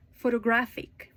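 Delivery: photoGRAPHic, weight on GRAPH; "Photographic" building to a strong GRAPH; third-syllable stress. Shown as a demonstration. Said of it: "this time to the third".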